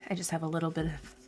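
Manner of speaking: audible breaths while talking; heavy breathing. Real, not acted. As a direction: breathe heavily between words. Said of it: "sorry for the heavy breathing".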